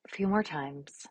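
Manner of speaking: calm, unhurried instructions with long silences; guided meditation. Real, not acted. Yoga teacher offering an affirmation and easing class into poses, calm guided meditation.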